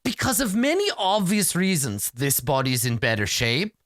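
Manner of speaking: lightly voiced snobbish doctor; haughty doctor. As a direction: talk down as if to a bad smell. Doctor sneers at the party.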